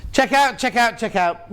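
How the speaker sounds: playful sales urging; urging call. Acted. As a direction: hurry the viewers to check out. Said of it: "urging viewers".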